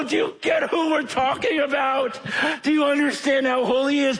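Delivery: a mild preacher's cry; urgent exhortation. Acted. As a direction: press the crowd to grasp it. Urging people, preacher exclaims.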